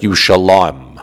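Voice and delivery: Yushalayim ending in a single long syllable, yu-sha-LAHM; vowel-pointed pronunciation. Shown as a demonstration. Teacher explaining vowel points, Yushalayim said as yu-sha-LAHM. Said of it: "that makes it be pronounced".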